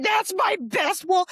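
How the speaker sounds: a hint of an exasperated mother; mom. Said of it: "the mom was like".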